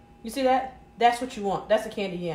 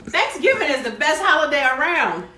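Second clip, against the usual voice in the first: louder, declaring it with joy; excited proclamation; 3 semitones higher, 6 dB louder than usual. Real, not acted. Cook to her viewers, louder and joyful. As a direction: sell the holiday with gusto.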